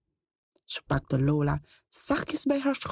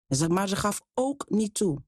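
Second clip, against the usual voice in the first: ordinary delivery, nothing marked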